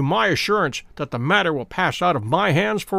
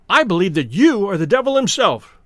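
a touch louder, amazed outburst; cried out; 3 semitones higher, 4 dB louder than usual. Acted. Sterndale amazed at Holmes's knowledge, mild outcry. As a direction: blurt it out in disbelief. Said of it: "he cried".

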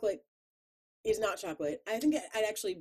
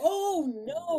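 disgusted; 11 semitones higher, 6 dB louder than usual. Real, not acted. Disgust at wax bottles.

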